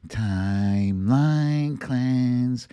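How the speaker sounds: slow, drawn-out segment title at normal level; right segment voice. Pretend. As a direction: announce the segment name, unhurried and even. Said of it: "had the wrong voice on for that one".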